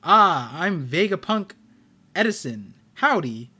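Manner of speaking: a hint of Southern howdy; cowboy accent. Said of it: "Kansai is cowboy?".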